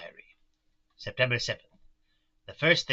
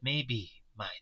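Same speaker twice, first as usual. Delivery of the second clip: put-on whispered aside in accent; 6 dB quieter than usual. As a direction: drop to an unvoiced whisper. Aside within the warning.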